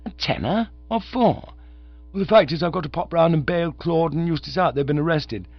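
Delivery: a chirpy undergraduate rattling on; young Oxford chap. Acted. Visitor asks to borrow a tenner.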